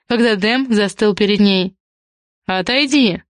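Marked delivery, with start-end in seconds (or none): 2.5-3.2 understated, silky warning; insinuating. A narrator's reading. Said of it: "вкрадчиво произнёс Дамиан".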